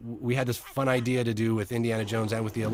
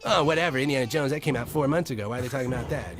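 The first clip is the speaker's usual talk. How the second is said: put-on dismissive kids; 5 semitones higher than usual. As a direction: imitate bored kids waving it off. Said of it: "basically like".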